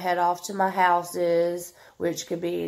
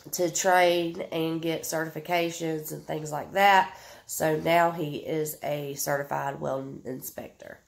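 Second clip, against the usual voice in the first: sniffly, congested voice; talking through a blocked nose; stuffed up nose. Real, not acted. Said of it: "I'm so sorry I'm sniffling and stuffed up".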